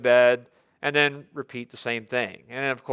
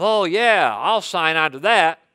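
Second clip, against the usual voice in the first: cocky confidence; 3 semitones higher, 4 dB louder than usual. Retold or imitated. Preacher mimics a cocky believer, mock swagger. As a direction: toss it off like nothing can go wrong. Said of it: "we don't have the cocky confidence".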